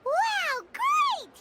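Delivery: high delighted exclamation; excited wow. Acted. Paimon marveling at the room, high and excited. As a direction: gasp out in delight.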